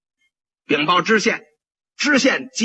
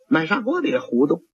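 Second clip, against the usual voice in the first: ordinary talk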